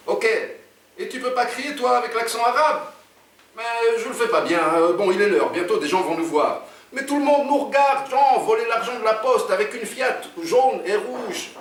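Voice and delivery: high-pitched agitated protest; fretful sidekick. Acted. Oumar fears everyone is watching them, fretful and high. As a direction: argue in a high, worried character voice.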